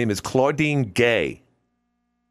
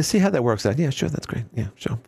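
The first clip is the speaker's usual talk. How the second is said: Tucker Carlson impression. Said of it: "a little bit of Tucker Carlson".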